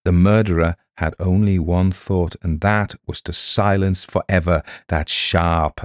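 usual speaking voice

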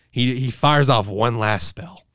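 slow hushed whisper for suspense; dramatic whisper. Acted. Reviewer building suspense before the plot twist, whispered.

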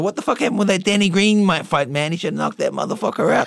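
high, loud imitation of the champ; Mike Tyson impression. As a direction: mimic a high-voiced boxer, loudly. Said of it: "you have got his voice down well".

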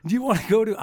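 a friend's goofy invite; imitating G's Wheeze. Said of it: "I'm gonna kill these imitations".

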